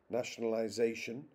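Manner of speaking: "nationalization" with main stress on ZA; stress on fifth syllable. Shown as a demonstration. Lecturer showing fifth-syllable stress in English, fifth syllable stressed. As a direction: lean on ZA in "nationalization". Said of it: "the fifth".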